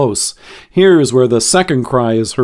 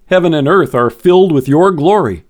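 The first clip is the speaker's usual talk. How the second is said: prayer. Acted. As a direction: pray it aloud in worship. Leads a closing prayer.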